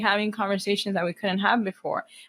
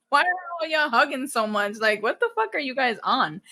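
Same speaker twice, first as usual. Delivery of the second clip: higher-pitched mock bafflement; incredulous retelling; 4 semitones higher than usual. Watching families hug so much, mockingly incredulous. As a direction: ask it as if utterly baffled. Retold disbelief at hugging families.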